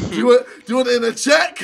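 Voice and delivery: laughing mock offer. Real, not acted. Mocking bribe joke.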